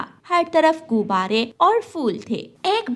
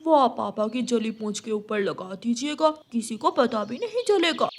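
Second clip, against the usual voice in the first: lightly voiced helpful child; confident young son. Son offering parents a paper tail, eager reassurance. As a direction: begin with a raised exclamation, then offer the fix.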